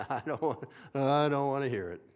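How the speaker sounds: loud snapping retort, barely holding a laugh; angry dad. Retold or imitated. Preacher imitates a dad who didn't grab his thumb, loud mock snap. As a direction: bark it like a fed-up dad. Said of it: "words might have come out of his mouth".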